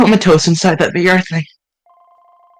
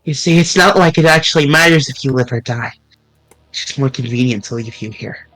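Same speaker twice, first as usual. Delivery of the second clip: cold villain; 3 semitones lower than usual. Acted. Manager revealing she faked the friendship, coldly sneering. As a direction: sneer the betrayal calmly.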